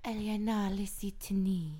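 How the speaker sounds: whispered Elvish. Shown as a demonstration. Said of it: "I remember one thing".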